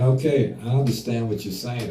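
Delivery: calm and even, no inflection; steady, soothing reply to heated person. Shown as a demonstration. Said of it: "There's no inflection in my voice".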